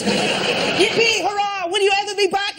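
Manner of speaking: put-on very high, cheering child; excited child voice. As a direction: squeal it like a delighted kid. Voicing orphans.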